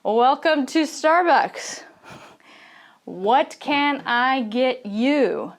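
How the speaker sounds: barista greeting. Shown as a demonstration. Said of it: "the person says".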